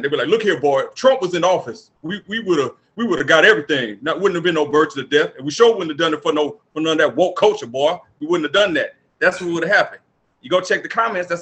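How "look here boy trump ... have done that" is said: lightly voiced country redneck lecturing a boy; redneck accent. Mocking the far right commenters in a mild redneck accent. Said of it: "I gotta do my redneck accent".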